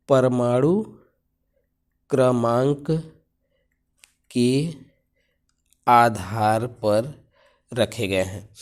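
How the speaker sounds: word by word with pauses; dictating slowly; slow dictation. Shown as a demonstration. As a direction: let the class write it down. Teacher repeating answer for copying.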